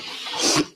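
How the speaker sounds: breathy unvoiced cough; quiet choking cough; coughing up water. Real, not acted. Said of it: "that water went down the wrong pipe".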